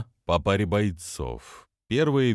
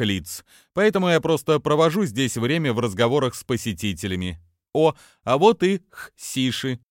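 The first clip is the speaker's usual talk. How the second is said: cartoon princess; 4 semitones higher than usual. Price voice.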